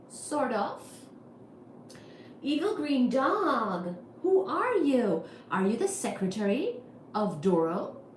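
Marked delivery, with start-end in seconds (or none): 2.4-8.0 mock suspicion. Real, not acted. Addressing evil green dog.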